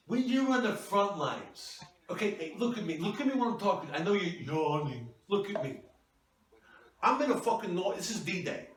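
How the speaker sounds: a hammed-up husband telling off his wife; mock angry husband. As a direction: play the self-important husband snapping back. Husband ranting about combat.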